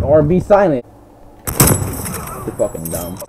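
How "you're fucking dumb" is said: slow contemptuous drawl. Real, not acted. Insulting enemy.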